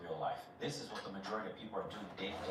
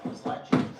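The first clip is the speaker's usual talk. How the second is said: amazed outburst; 11 dB louder than usual. Real, not acted. Amazed at the viral video's success.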